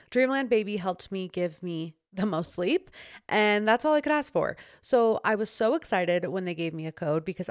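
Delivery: upbeat, personal sponsor read; podcast ad read. Real, not acted. Host endorsing a skincare sponsor to listeners, ad read. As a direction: sell it like a friendly endorsement.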